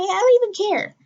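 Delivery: high, loud burst of exasperation; exasperated outburst. Real, not acted. Ranting to listeners about a dim teacher, loud exasperated outburst. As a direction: throw up your hands, fed up.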